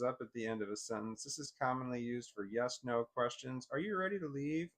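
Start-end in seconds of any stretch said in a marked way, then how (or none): 3.7-4.7 "leave" lifted at the end, higher pitch; rising intonation. Shown as a demonstration. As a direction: ask it with the voice lifting on "leave". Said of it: "with the voice lifting on leave".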